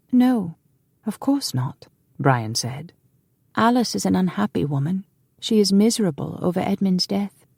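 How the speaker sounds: put-on high gentle young man; lightly voiced frail boy; young man's voice. Frail younger brother speaks.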